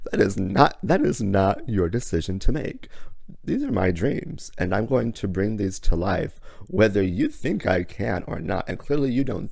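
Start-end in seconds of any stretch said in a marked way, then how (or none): 0.1-5.3 straight up firm. Retold or imitated. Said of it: "I told him straight up".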